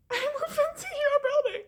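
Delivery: high mimicking. Girlfriend suggesting she move in, high mimicking voice. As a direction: play her as bubbly and clueless.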